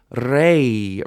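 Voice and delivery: RE with the vowel drawn out and left open; open syllable. Shown as a demonstration. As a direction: let the vowel of RE keep going. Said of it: "It keeps going".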